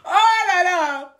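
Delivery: tears of laughter; laughing to tears. Real, not acted. Vlogger overcome by laughter, wheezing. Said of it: "je suis morte de rire".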